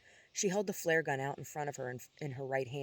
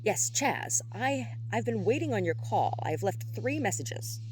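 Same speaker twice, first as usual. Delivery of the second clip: higher-pitched, firm statement of fact; matter-of-fact; 6 semitones higher, 3 dB louder than usual. A narrator's reading. Johann to Chaz about unanswered calls, matter-of-fact. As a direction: state it pointedly, as a plain fact. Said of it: "Johann stated matter-of-factly".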